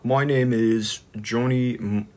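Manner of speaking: slow, careful British introduction; British accent attempt. Shown as a demonstration. Streamer practising an introduction, slow halting British accent. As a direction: feel your way slowly into British. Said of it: "do any British accent".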